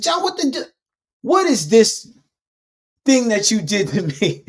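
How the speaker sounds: mock his own past self as a complaining victim; whiny victim voice. The speaker whining at John, in a high mocking voice. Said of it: "Victim ass language".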